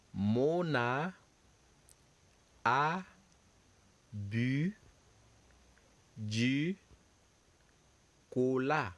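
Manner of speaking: "Mona a bu du cola" said word by word with long gaps; slow dictation. Shown as a demonstration. Teacher models the French sentence slowly for students. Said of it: "So repeat after me".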